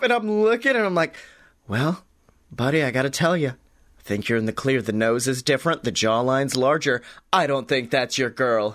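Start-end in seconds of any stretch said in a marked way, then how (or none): 1.7-8.7 lightly lowered detective voice; a hint of a gruff gumshoe giving the verdict; low PI verdict, matter-of-fact; hard-boiled PI. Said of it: "Scotty Moore, private investigator".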